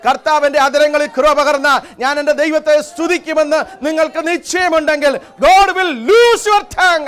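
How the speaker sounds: exhortation building to high, loud, drawn-out English cries; fervent preaching. Real, not acted. Preacher promising God will loose tongues, fervent exhortation. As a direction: urge the congregation on, rising in pitch and force. Exhorts the congregation with rising force.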